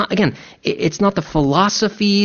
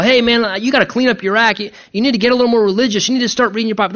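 higher-pitched mock admonishing; pushy religious nagger; 6 semitones higher, much faster than usual. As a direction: lecture them like a well-meaning religious busybody. Acts out preaching a religious lifestyle.

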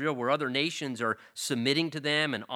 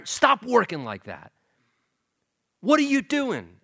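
exasperated God; 3 semitones higher, 4 dB louder than usual. Retold or imitated. God stunned that a speck of dust commands him, loud and high. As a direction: reel the arrogant speck of dust back in. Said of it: "here God is saying".

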